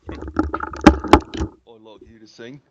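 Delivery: put-on whiny kid voice; childish whine. Jokingly whining like a child.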